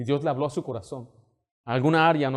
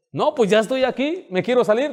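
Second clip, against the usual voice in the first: higher, louder panicked plea; panicky rider; 9 semitones higher, 6 dB louder than usual. Acted. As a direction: beg to get off the ride, rising in panic. Rider panicking near the front.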